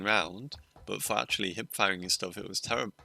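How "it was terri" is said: with hiccups. Real, not acted. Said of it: "Excuse my hiccups".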